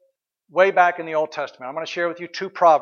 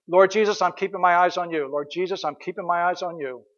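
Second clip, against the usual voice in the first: fading, softer repeated prayer; repeated quiet prayer. Shown as a demonstration. Preacher repeating the prayer, growing quieter. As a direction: let the prayer settle quietly. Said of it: "Let me give you an example".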